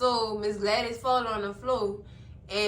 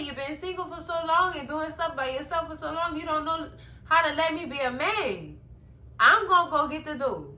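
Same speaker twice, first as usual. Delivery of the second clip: higher-pitched mock argument; retold indignant protest; 4 semitones higher than usual. Zach arguing to answer the door, retold protest. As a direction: push back, voice raised in pitch.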